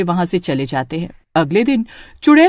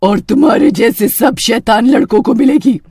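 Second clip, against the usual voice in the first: witch threat. Acted.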